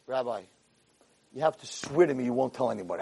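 soft, hushed begging; meek plea. Acted. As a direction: plead quietly with the angry rabbi. Caught man begs for secrecy.

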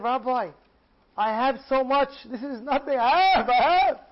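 high, loud dismissive boast; brushing off the fortune as nothing; boastful rich man. Acted. Rich old man telling the rabbi, loud and high, it is nothing.

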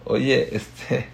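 mock offended protest; annoyed complaint. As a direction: confront in exasperation. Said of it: "Ahí es cuando dices".

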